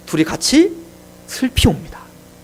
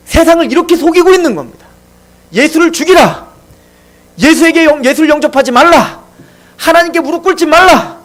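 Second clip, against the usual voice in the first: satan's tempting whisper; 3 semitones higher than usual. Acted. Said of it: "이게 꼭 사탄이 우리에게 속삭이는 것 같아요".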